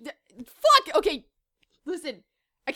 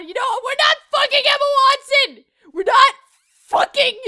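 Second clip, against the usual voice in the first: mock outrage; 4 semitones higher, 5 dB louder than usual.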